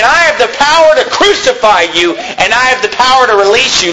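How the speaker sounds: threatening Pilate. Acted. Preacher paraphrasing Pilate's warning to Jesus, mildly threatening. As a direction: lightly act a ruler flaunting authority. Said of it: "Pilate is threatening Jesus and saying".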